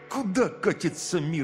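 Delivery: high, drawn-out bitter lament; spiteful grumble. Acted. Gleb grumbling at the young generation, spiteful. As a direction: stretch it slowly with disgust. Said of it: "злобно процедил он".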